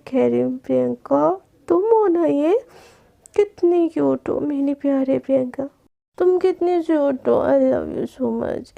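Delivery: slurred, slow tipsy cooing; drunk sweet talk. Acted. Drunk Garima sweet-talking Priyanka, slurred and slow. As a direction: woo her like a tipsy girl.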